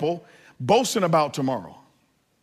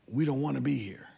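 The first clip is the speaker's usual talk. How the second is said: imitating sobbing kids; 7 dB quieter than usual. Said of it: "just sobbing".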